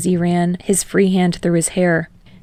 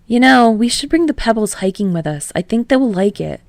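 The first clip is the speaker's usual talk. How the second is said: put-on lightly raised, eager young man; a touch higher and brighter as Kirishima; 4 semitones higher than usual. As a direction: Kirishima suggesting a trip to his partner, eagerly. Narrator voices Kirishima.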